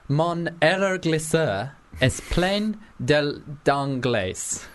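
slow, halting French reading; mispronounced French. Pretend. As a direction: read French badly, word by word. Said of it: "I pronounced everything wrong there".

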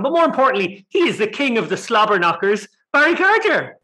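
hyped-up wrestling announcer intro; ring announcer. Acted. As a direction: build it up like a fight introduction. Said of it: "That doesn't sound right, does it?".

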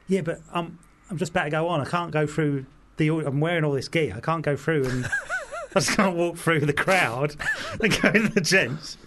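building from plain to a half-laughing shout; mock panic rising to a shout; exasperated protest.

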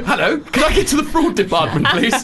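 mock phone call. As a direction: ring up the fraud desk, playful.

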